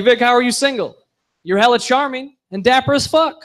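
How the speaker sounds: gushing admirer. Retold or imitated. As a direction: gush like an admirer. Admirer voiced.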